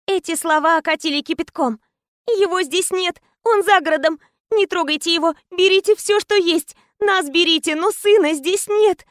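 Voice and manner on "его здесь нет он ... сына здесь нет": tearful pleading. Acted. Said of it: "затараторила, захлёбываясь слезами".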